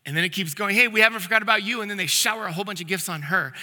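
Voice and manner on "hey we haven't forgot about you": excited DJ. Retold or imitated. Retold DJ announcing more gifts.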